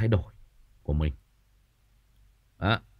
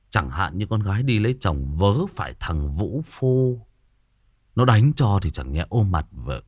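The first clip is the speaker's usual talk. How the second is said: cold and aloof; 3 semitones lower than usual. Retold or imitated. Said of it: "giọng quả rất là lạnh lùng".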